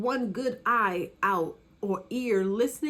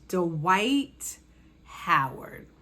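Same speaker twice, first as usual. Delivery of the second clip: dramatic reveal; much slower than usual. Real, not acted.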